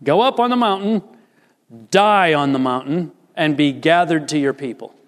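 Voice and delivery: God's command voiced with force. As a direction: order it like God commanding Moses. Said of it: "It's in the command form".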